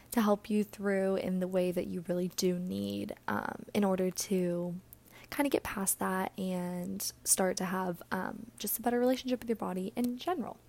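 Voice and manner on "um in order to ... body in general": breathless, gasping between phrases; out of breath. Real, not acted. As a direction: talk while short of breath. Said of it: "I don't know why I'm so out of breath today".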